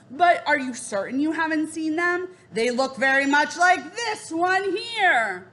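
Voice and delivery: a hint of a scheming raven king; sly Raven King. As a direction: savour each word like a sly king. Raven King questioning Jack.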